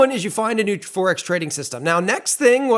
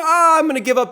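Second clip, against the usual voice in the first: imitated trader, higher and louder in frustration; mock frustration; 9 semitones higher, 5 dB louder than usual. Host imitating a frustrated trader quitting, higher and louder. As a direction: blurt it out like you're fed up. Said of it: "you get all frustrated".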